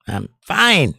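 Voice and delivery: a light hint of a Bill Clinton drawl; host lightly voicing Bill Clinton for chat, mock reassuring; Bill Clinton impression. Shown as a demonstration. Host joking to chat, a hint of Clinton reassurance. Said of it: "I learned that from Bill Clinton".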